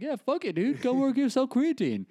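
high-pitched careless recruiter act; mock-casual high voice waving someone in; voice of a blasé hiring store. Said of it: "High Health is like".

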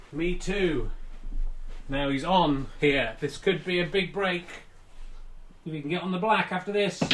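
calm snooker commentary; sports commentator. Acted. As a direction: call the shot like live TV.

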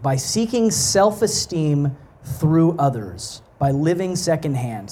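measured read-aloud with deliberate pauses; reading a quotation. Real, not acted. Preacher reading the philosopher's words to the congregation, measured quote reading. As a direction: read it out phrase by phrase.

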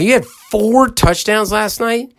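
high, slow amazed repeat; incredulous echo. Retold or imitated. Host echoing the son's boast back to him, amazed. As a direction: stretch it out in disbelief. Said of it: "I go".

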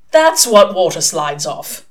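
loud, slow and pleased; excited. A narrator's reading. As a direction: announce it like a discovery. Excited explanation after shout.

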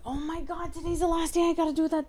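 sudden whispered oh my God; whispered realization. Real, not acted. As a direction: gasp it under your breath. Remembering a deadline.

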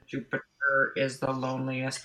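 lightly imitated robot voice, slow and measured. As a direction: quote it slowly, a hint of robot. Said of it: "when that robot voice came in and said".

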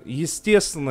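usual speaking voice

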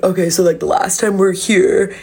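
lightly put-on bragging bro voice; imitated bro. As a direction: mimic a guy boasting about his hookups, drawing out the punch lines. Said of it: "that's how he's talking".

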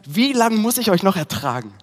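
mildly heated, emphatic retold complaint; exasperated impatience. Preacher quoting Jesus fed up with the crowd, impatient. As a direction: act out patience running out, moderately. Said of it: "er ist voller Ärger, ist Ungeduld".

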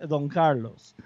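"Don Carlos" Spanish-style, stress on Carlos, falling; corrective Spanish-style name. Shown as a demonstration. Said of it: "that's not his name".

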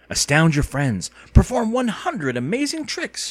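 a light mock announcer voice; reading box blurb. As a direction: read the box like a showy ad. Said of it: "she read".

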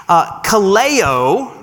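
slow, drawn-out kaleo, kah-LEH-oh; Greek word kaleo. Shown as a demonstration. Explaining the Greek root to the church, very slow. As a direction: stretch kaleo out so they hear every sound. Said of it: "the second part of that".

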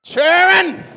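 put-on repeating the Southern "children" to the church; Southern accent. Shown as a demonstration. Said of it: "you say it like you're from the South".

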